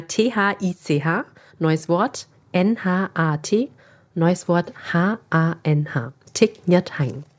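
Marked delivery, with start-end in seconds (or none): 0.0-6.1 "T H I C H", "N H A T", "H A N H" spelt letter by letter, slowly; spelling it out. Shown as a demonstration. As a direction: spell the name out letter by letter, calling "neues Wort" between parts. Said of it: "buchstabier's mal". (Name langsam Buchstabe für Buchstabe buchstabiert)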